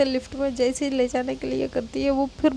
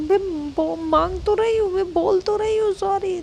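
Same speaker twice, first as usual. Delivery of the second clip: exasperated whine; 5 semitones higher than usual. Retold or imitated. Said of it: "कहती".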